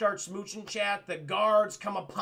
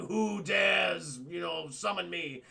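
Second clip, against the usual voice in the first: booming cave spirit; 2 semitones lower, slower than usual. Retold or imitated. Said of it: "the Cave of Wonders opens up".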